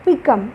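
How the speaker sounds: పికమ్ with a light first syllable and air force on కమ్; stress on second syllable. Shown as a demonstration. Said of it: "బీ అన్నప్పుడు తేలిగ్గా పలుకుతున్నాము".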